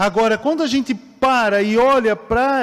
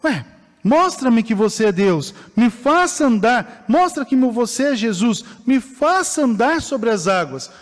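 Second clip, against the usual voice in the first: demanding challenge; 4 semitones higher, 4 dB louder than usual. Retold or imitated. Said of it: "Pedro fala".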